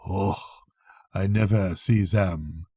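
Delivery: lightly voiced doctor. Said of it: "he remarked".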